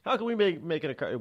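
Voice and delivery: high, protesting tennis player, loud at first; indignant card owners. Retold or imitated. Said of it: "And they're like".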